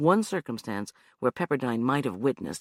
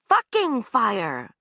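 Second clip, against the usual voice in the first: very slow, clipped "Fucking fire"; pointed correction; 9 semitones higher, 5 dB louder, much slower than usual. Acted. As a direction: correct him with contempt. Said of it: "Anna corrected".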